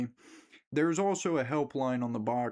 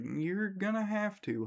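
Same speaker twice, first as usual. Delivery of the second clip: creepy sweet insistence; 8 semitones higher than usual. Retold or imitated. Girlfriend insisting, voiced.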